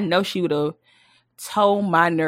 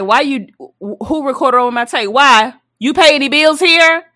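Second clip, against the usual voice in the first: mock outraged, rising louder; indignant kid; 5 semitones higher, 5 dB louder than usual. Kid confronting family over recorded show, mock outrage. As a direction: snap at whoever taped over your show.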